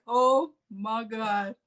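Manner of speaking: high, hammed-up panic at the mirror; comic mock meltdown. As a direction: beg someone to shoot the lady in the mirror. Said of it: "I'm like".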